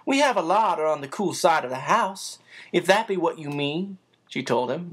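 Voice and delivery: put-on a busy motherly woman teasing the boy; bustling housekeeper. Narrator voices Becky.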